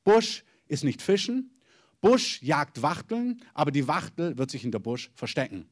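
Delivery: deliberate, grave pronouncement; solemn prophetic voice. Retold or imitated. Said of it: "Was so viel bedeutet auf Deutsch wie".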